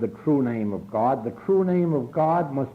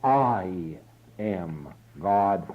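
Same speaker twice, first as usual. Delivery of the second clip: inner divine voice; 4 semitones lower, slower than usual. Retold or imitated. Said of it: "the voice saying".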